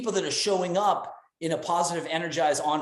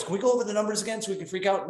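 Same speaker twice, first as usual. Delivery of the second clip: mock negative voice; 4 semitones higher, much faster than usual. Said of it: "In your negative voice".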